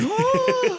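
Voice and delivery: very high startled oh; mock startled gasp. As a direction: yelp in sudden shock. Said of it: "and you're like".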